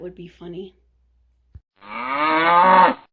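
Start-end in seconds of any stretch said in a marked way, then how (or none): 1.8-3.0 call out. Real, not acted. Calling out to the cat.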